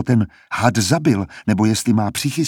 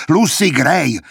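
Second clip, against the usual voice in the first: irritated roar; 6 semitones higher, 3 dB louder, slower than usual. A narrator's reading. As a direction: roar her name, louder and higher, irritated. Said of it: "zařval podrážděně". (podrážděné zařvání, hlasitěji a výš)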